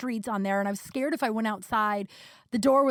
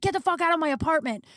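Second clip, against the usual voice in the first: imitated angry order, pitched high; retold flip-out; 6 semitones higher than usual. Boyfriend ordering her out, retold high and mildly angry. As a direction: mimic him throwing her out, higher voice. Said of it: "he flipped the fuck out at me".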